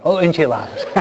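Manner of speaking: corrects enchiladas with a laugh; laughing at own slip, saying enchiladas; laughing at self. Real, not acted. A sheepish laugh while correcting enchiladas. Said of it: "Siempre lo digo mal".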